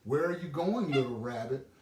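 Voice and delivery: a busy mother hailing him; field mouse calling. Acted.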